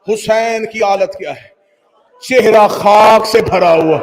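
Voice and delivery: slow grieving declamation, breaking into shouts; mourner's chanting lament; lamenting recitation. Acted. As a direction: wail the father's farewell to the crowd. Mourning recitation of Akbar's death.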